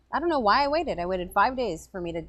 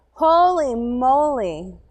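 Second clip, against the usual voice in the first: slow, loud holy moly; surprised exclamation; 3 semitones higher, 6 dB louder, much slower than usual. Retold or imitated. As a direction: stretch it out in dismay. Reacting to awful hotel.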